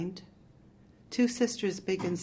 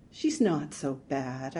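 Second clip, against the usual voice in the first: uncertain; 3 semitones lower, slower than usual. Acted. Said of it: "I said uncertainly".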